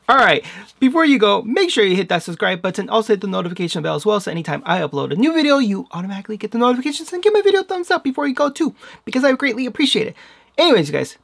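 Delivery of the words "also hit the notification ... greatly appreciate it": game show host. Real, not acted. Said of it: "I sound like a game show host".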